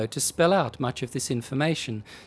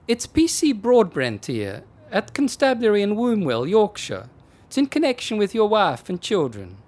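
policeman on the phone; 7 semitones higher, 5 dB louder than usual. Acted.

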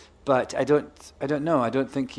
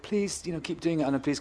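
higher-pitched fans' plea, played lightly; imitated pleading; 3 semitones higher, 6 dB quieter than usual. Retelling fans begging him to continue, imitated pleading. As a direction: beg lightly, starting high on please. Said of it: "all these people were like".

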